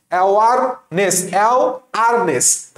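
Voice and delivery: অ্যাওয়ারনেস broken so the R stands out; split pronunciation. Shown as a demonstration. Teacher showing the middle R, split pronunciation. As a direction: split off আরনেস with a clear R. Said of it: "এইভাবে পড়বা".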